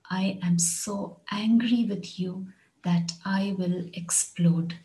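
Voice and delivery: slow it down so students catch each word; slow repeat. Shown as a demonstration. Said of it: "Here's another one".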